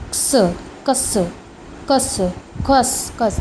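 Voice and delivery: क्स said as a tight k plus s; ks sound. Shown as a demonstration. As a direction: clip कस short and crisp. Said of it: "एक्स को".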